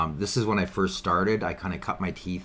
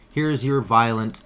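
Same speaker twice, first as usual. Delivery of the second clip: sarcastic; 3 semitones higher, 4 dB louder, slower than usual. Acted. Sarcastic about peaceful protesters.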